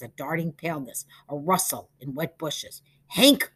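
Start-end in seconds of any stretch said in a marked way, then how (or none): 3.1-3.5 Hank with a high, loud rise; questioning. A narrator's reading. Peter calling into the bushes, questioning. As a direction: call out "Hank" as an unsure question. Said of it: "Peter questioned the bushes".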